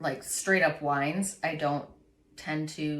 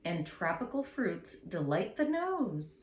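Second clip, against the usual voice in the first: label read-out; 5 dB quieter, slower than usual. Acted. Resumes reading the wine label.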